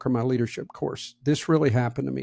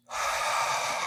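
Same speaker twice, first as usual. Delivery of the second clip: calming breath; 8 dB quieter than usual. Retold or imitated. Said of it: "I'm breathing in through my nose".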